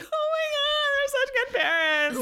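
very high, hammed-up tearful wail; mock sobbing. Viewer overcome by good movie parents, mock sobbing. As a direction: squeal it through pretend happy tears.

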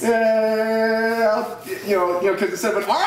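tipsy and giggling; laughing through a tipsy explanation. Real, not acted. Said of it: "I'm a little tipsy".

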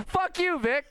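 high-pitched comic indignation; retold exasperated outburst. Fed-up passenger to pilot, exasperated comic retelling. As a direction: curse him in high, mock exasperation.

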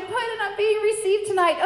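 high, loud happy announcement; excited news. Retold or imitated. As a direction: burst out with the good news. Retold phone call with big news.

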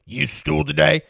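lightly put-on country dad accent; a hint of country twang, mimicking dad. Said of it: "he would do it in his country voice".

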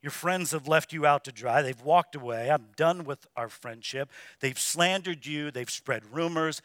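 soft, low, gentle pleading with the hurting; quiet compassionate sermon voice; tender pastoral appeal. Real, not acted. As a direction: speak softly to the broken-hearted. Tender pastoral appeal, softer, lower.

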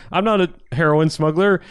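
high, startled protest; shocked. Retold or imitated.

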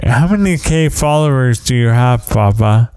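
innocently curious, lightly voiced kid; sincere child. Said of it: "So sincere and so touching".

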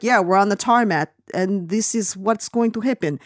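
lightly mocked Russian accent; half-hearted comic Russian accent; joke Russian accent. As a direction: imitate a bad Russian-accented English. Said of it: "I was doing it to be funny".

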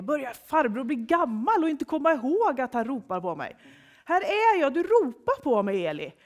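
high, loud, exasperated complaint; annoyed boy. A narrator's reading. Samuel stomps off to Eli, quite angry. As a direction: scold the old man in a huff. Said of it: "är Samuel ganska arg".

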